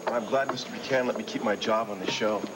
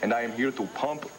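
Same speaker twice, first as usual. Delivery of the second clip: a hammed-up, barely-there German accent; bad German accent. To his girlfriend, bragging about dreams, in a weak fake German accent. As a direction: put on a lousy German accent like old Siggy. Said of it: "That's the worst German accent I ever heard".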